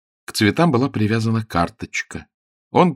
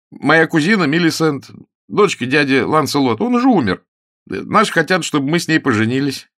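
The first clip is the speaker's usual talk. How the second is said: put-on raised, earnest voice of a flustered young man; young gentleman; 7 semitones higher, 5 dB louder than usual. Ronnie tells Sue about his cousin, a lightly voiced young man. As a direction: explain it a bit too eagerly.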